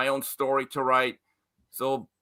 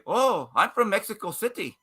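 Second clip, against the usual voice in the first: badly faked Mexican accent, slightly raised pitch; terrible Mexican accent; 4 semitones higher than usual. Guest mimicking a boastful Mexican fighter, bad Mexican accent. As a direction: attempt a Mexican accent and miss. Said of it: "that's a terrible s-, Mexican accent".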